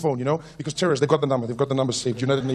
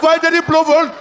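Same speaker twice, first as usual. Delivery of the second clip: put-on whiny child; 7 semitones higher than usual. Child asking loudly in the car.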